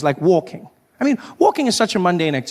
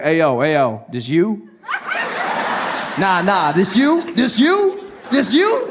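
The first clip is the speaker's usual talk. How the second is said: cool black American man; slower than usual. Retold or imitated. Cool man greeting a stranger, smooth then rising on you. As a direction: hype up a stranger coolly. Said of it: "black American man ... just be like".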